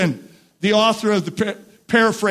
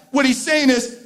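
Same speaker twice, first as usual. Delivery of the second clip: ordinary talk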